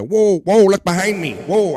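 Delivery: high, loud startled whoa; excited whoa. Retold or imitated. Host mocking a caller on stream, high and loud startled. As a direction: jump at what's behind you. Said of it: "should have did my Chicago accent".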